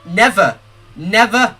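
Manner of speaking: measured dramatic reading of the text; game monologue read. Acted. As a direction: read the grief of the hero out.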